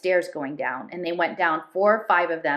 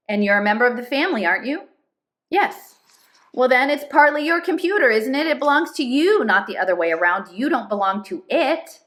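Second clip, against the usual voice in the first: earnest persuasion; 6 semitones higher, 4 dB louder than usual. Acted. Papa John persuading Chip.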